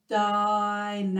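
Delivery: slow Dynamics, drawn out; teacher models saying it slowly. Shown as a demonstration. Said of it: "say it a little bit slower".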